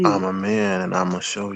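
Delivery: soft, hushed half-whisper, under the breath. Voicing what Jay half-whispers, as the others asked: imitating Jay Dunn's half-whisper. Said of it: "Jay Dunn whispers".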